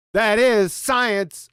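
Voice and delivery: slow, solemn mock decree; hammed-up reverence, stress on "is"; mock reverent pronouncement. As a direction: pronounce it like a sacred creed, very slowly. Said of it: "and genuflect again".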